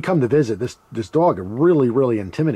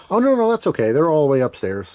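high voiced grandfather; 4 semitones higher, 4 dB louder than usual.

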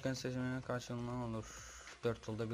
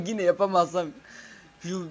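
frustrated laugh; 4 semitones higher, 8 dB louder than usual. Real, not acted. Frustrated laugh before quitting.

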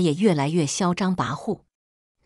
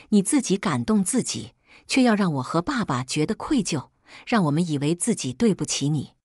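loud questioning. Acted. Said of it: "我大声质问她".

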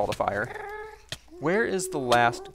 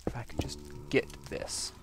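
whisper; 4 semitones lower, 10 dB quieter than usual. Real, not acted. Whispering while sneaking for item.

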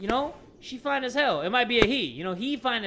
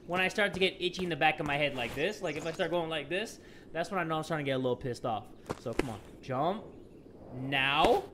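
irritated grumble; 6 semitones lower, 9 dB quieter than usual. Real, not acted. Irritated, drops to low grumble.

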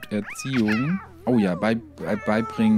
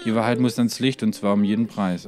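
conspiracy reading. Acted. Reads conspiracy quest text.

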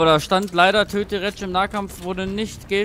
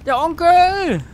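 announcer intro; 7 dB louder, slower than usual. Pretend.

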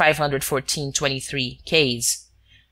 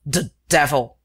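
nonplussed mutter. A narrator's reading. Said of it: "muttered Ganimard, absolutely nonplussed".

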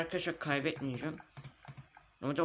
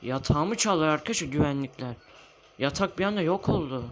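indignant; 5 dB louder than usual. Real, not acted. Bed stolen, shouting at viewers.

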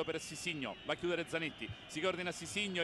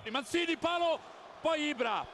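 breathless italian goal commentary; 7 semitones higher, 5 dB louder than usual. Real, not acted. Post hit in live commentary.

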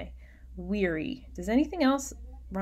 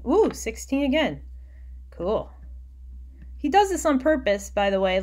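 excited; 5 semitones higher, 5 dB louder than usual. Real, not acted. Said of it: "excited aside about Poe".

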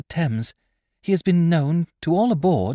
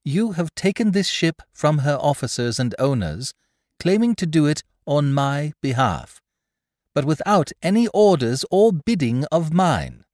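higher, measured voice with firm authority; commanding; 9 semitones higher, 5 dB louder than usual. A narrator's reading. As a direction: address the crew as the one in charge. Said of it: "quiet command in her voice".

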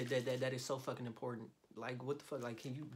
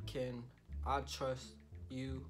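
slow, earnest put-on softness; drawn out like a heartfelt confession; oddly tender slow voice; slower than usual. Drafting a text to his friend, slow and mock sincere. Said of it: "Why am I talking like that?".

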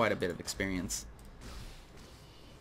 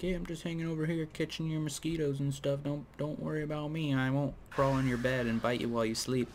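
a polite spider pleading innocence; a spider reassuring the homeowner, in a high spider voice; talking spider voice; 5 semitones higher than usual. Acted. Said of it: "they sound like that".

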